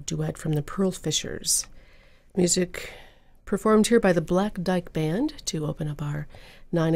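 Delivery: smooth on-air announcer read; public radio host. Acted. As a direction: introduce the hour like a radio host.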